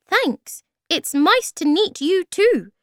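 very high, loud little voice; high-pitched small creature; tiny creature. A narrator's reading. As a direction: squeak a polite reply. Tiny Thingamy answers the greeting.

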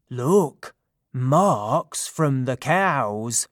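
eager call, slowing on the marks; excited cry. Acted. Silenus calls the satyrs to the tracks, excited. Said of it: "Silenus cried".

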